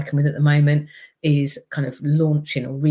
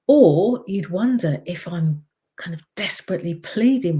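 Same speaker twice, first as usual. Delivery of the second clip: pleading voice; 3 semitones higher than usual. Shown as a demonstration. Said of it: "if my voice goes up like this".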